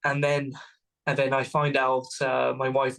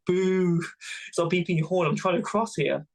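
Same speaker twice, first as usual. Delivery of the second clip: mock heckling; 4 semitones higher than usual. Jeering at honking drivers.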